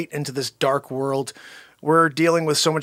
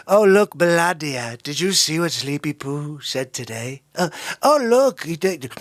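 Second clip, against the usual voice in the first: Trump impression; 2 semitones lower than usual. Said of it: "pretty good Donald Trump impression".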